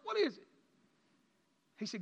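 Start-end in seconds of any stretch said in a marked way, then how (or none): 0.0-0.5 crying plea. Retold or imitated. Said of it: "I was crying".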